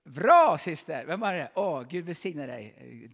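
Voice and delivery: high, loud burst of joy; excited cry. Real, not acted. Preacher cheers a woman who answered, excited. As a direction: shout it out in delight.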